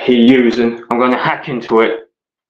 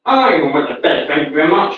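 indignant; 5 semitones higher, much faster than usual. Real, not acted. Indignant denial to chat.

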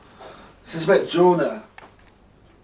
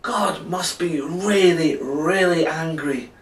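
slow, drawn-out cry with mild alarm; dramatic cry; 3 semitones higher, slower than usual. Acted. Captain tells the crew why the storm came, mildly alarmed cry. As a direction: stretch it out with a touch of dread. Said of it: "cried the captain".

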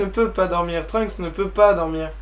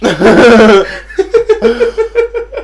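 loud laughter; 11 semitones higher, 13 dB louder than usual. Real, not acted.

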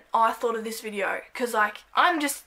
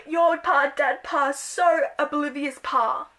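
giggling secret language; 4 semitones higher, slower than usual. Pretend. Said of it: "We're gonna be like".

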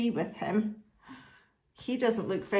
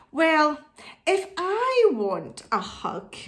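put-on wise old owl; 4 semitones higher than usual. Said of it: "said the wise old owl".

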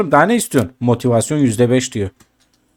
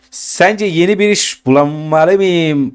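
character voice; 4 semitones higher, slower than usual. Acted. Karakteri seslendiriyor, yavaş.

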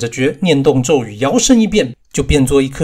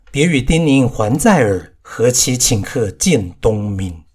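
poem recitation. A narrator's reading. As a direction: savour each line of the poem. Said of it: "暗暗地自称道".

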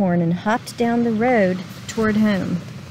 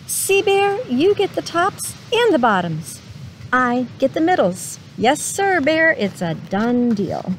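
sly gloating; 3 semitones higher than usual. Acted. Hare gloats to Bear.

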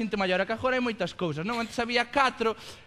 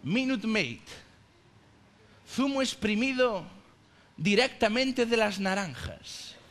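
lightly voiced juice commercial, measured pauses; hint of an ad voice-over, phrase by phrase; advert announcer; slower than usual. Comedian quoting the juice advert on stage, mock announcer delivery. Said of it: "o anuncio este do".

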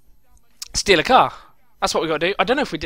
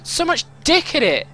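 higher, exasperated outburst; angry frustration; 5 semitones higher than usual. Real, not acted. Gamer cursing his own driving, frustrated anger. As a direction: spit it out, fed up with yourself. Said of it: "it makes me so fucking angry".

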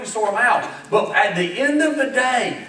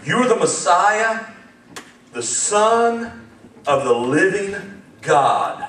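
Peter's confession; 4 semitones lower, much slower than usual. Acted. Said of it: "listen up, ready?".

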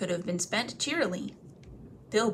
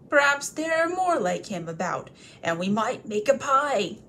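scheming troll; 3 semitones higher, 5 dB louder than usual. Acted.

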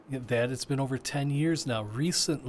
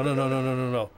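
ordinary talk

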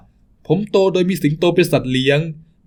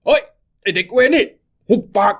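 furious shout. Acted. Thug yelling at the crying child, furious high shout. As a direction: bark the order to shut up.

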